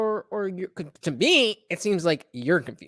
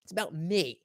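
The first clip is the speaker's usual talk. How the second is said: mocking the woman; 3 semitones lower, 6 dB quieter than usual. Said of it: "she's, like, so mad".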